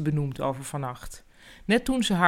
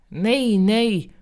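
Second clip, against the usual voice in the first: higher, louder urgent sleep-talk; 5 semitones higher, 6 dB louder than usual. Acted. Enzo talking anxiously in his sleep, urgent and louder. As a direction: blurt it out urgently from a dream. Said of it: "mompelde hij met urgentie".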